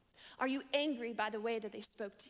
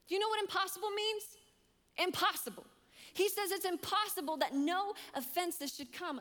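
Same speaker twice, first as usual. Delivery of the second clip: preaching at full force; 6 semitones higher than usual. Acted.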